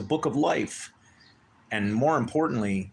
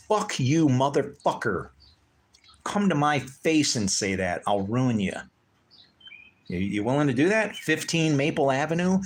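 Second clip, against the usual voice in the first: furious challenge; 4 semitones higher than usual. Real, not acted. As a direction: dare the critic to show up. Angry rant challenging critics.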